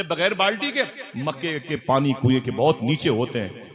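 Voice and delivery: teasing friend. Acted. Friend teases Amina at well.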